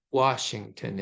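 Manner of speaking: "Washington" with weight on "Wash", two light syllables after; dactylic stress. Shown as a demonstration. Lecturer gives a dactylic example, first-syllable stress on "Washington". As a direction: lead hard on the first syllable of "Washington", then fall away. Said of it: "a stressed and then two unstressed syllables".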